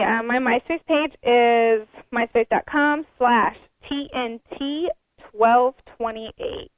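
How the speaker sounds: slow, spelled-out plug voice; infomercial. Real, not acted. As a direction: read it like a TV ad. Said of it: "I sound like an infomercial".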